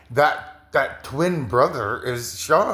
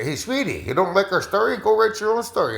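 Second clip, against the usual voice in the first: sassy spirit voice; 7 semitones higher than usual. Retold or imitated. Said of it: "you come on the screen and say".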